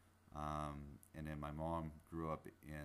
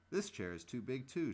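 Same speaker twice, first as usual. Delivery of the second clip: put-on higher-pitched, complaining whine from a little girl; whiny; 8 semitones higher, 7 dB louder than usual. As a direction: whine it like a fussy child who can't get comfortable. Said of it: "she whined".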